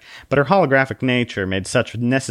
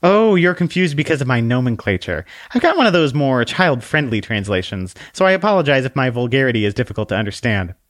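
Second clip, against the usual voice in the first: high, bright-pitched polite little lady; a dainty holy book apologizing sweetly; prim little book voice; 4 semitones higher than usual. Acted. The Bible explains her words to the man, in a high prim voice.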